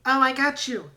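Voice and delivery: friendly helper offering a hand, lightly voiced. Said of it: "and Helper goes".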